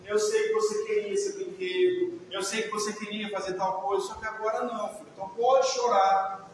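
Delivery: gently comforting. Retold or imitated. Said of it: "acolhe ela".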